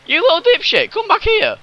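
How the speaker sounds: high angry yell. Real, not acted. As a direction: shout after it angrily. Chasing fleeing ship, yelling.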